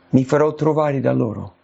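ordinary talk

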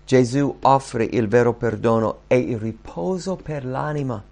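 ordinary talk

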